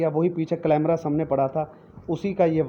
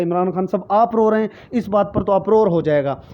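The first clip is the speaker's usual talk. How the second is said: louder, higher dismayed plea to the leader; upset supporter; 4 semitones higher, 5 dB louder than usual. Pretend. A supporter cries out to the leader on TV, dismayed and loud. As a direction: protest in shock like a loyal follower. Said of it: "वो कहेगा".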